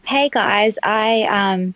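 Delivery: gravelly morning voice; rough, just-woke-up voice. Real, not acted. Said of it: "sorry, I just woke up, so my voice".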